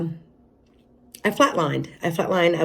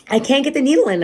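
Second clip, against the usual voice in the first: a higher, mildly urgent nurse's voice; imitated worried nurse; 6 semitones higher, 4 dB louder, faster than usual. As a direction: lightly act out a nurse reporting trouble. Retells nurse's alarm to doctors.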